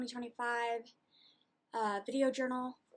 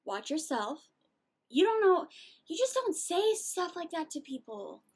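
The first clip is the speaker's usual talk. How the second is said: imagined telling off; 5 semitones higher, 4 dB louder than usual. Retold or imitated. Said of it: "And it's like".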